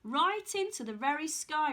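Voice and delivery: "Right into the very sky" with a beat on each word; nod between each word. Acted. Old man repeating to Jack, pausing between each word. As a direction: space out "Right", "into", "the", "very", "sky" one by one. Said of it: "with a nod between each word".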